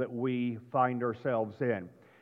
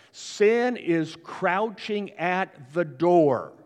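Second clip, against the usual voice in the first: God warning Cain; 3 semitones higher, 5 dB louder, much slower than usual. Acted. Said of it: "and God says this".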